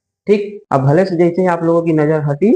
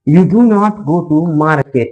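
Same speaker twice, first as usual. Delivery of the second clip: slow dictation; much slower than usual. Shown as a demonstration. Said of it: "market.".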